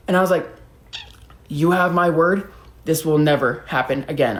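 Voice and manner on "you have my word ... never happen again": slow, earnest vow; measured and sincere, sinking lower; solemn promise. Retold or imitated. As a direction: give your word gravely.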